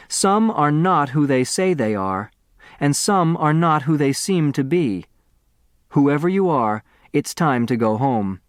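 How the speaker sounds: a dead man's teasing sermon to heirs; reading a will. A narrator's reading. Westing's will read to the heirs, grand proclaiming voice.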